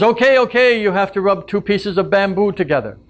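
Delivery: high, hurried bird voice giving in; panicked bird. Acted. Throttled bird giving Maui a new answer, high and squeaky. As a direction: squeak out the answer to save yourself. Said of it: "And the bird says".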